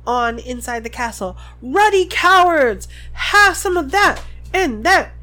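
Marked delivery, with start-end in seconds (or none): 1.6-5.1 bellowing. A narrator's reading. Hagrid keeps bellowing.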